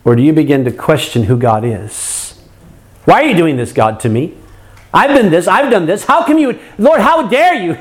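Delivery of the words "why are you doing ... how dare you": mock complaint to God. Voicing a complaining believer to God.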